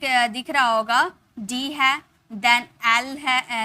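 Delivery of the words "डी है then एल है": slow spelling out. Shown as a demonstration. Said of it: "तो यहाँ पे आपको दिख".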